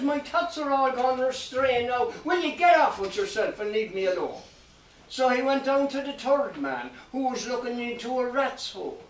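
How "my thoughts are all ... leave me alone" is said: raised-pitch grumble, easing down; put-out and dismissive; a touch of huffy annoyance; mildly exasperated. Acted. Disturbed man sends him away.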